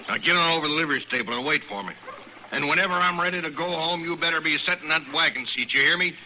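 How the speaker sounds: put-on stern father barking orders at his boy; harsh command to a son; gruff order.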